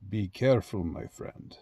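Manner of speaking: soft menace that drops to a whisper on the last words; sinister villain. Retold or imitated. Troll cautioning someone online, whispered villain menace. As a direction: breathe the threat like a film baddie. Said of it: "some movie villain uttering those lines".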